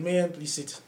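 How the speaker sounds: quietly grave, imitating dad; solemn father. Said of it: "he had this seriousness in his face".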